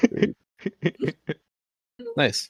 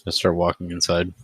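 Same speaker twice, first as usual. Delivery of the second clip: sly gambler character voice; lightly voiced cool gambler; Gambler Black voice. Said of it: "Feels good to use my Gambler Black voice".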